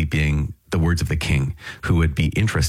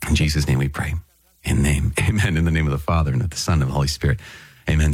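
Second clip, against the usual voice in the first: prayer. Acted. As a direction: pray it gently to God, as a congregation leader. Opening prayer before the reading.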